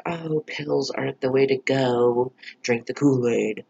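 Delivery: slow, smug mock cult-leader voice; mocking Edgar. Vlogger mocking Edgar's advice to Betty, slow put-on drawl. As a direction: parody him preaching in a slow, put-on drawl. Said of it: "now Edgar's all like".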